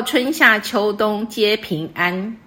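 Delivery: reads each syllable slowly and evenly, like reciting verse; slow couplet recitation. Shown as a demonstration. Teacher reciting a couplet example to the student, slow and measured. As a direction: savour the couplet one word at a time. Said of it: "然后".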